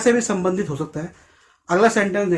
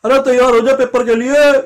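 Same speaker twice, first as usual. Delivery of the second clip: higher, louder grandmotherly scolding; grandma scolding; 4 semitones higher, 6 dB louder than usual. Retold or imitated. Grandma telling the child to get ready for exams, scolding call. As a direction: urge like a granny pushing a child to study. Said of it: "दादी अम्मा कह रही है".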